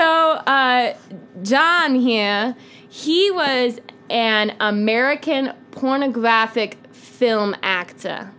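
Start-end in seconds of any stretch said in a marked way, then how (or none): 1.4-8.3 slow, measured, spaced-out delivery; put-on presenter persona. Presenting a suspect to the co-host, slow put-on persona. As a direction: present each suspect with mock gravity, halting. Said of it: "Why are you talking like that?".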